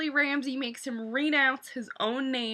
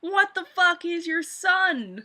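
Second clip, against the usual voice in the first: indignant Yara; 7 semitones higher, 4 dB louder, slower than usual. Retold or imitated. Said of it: "Yara's like".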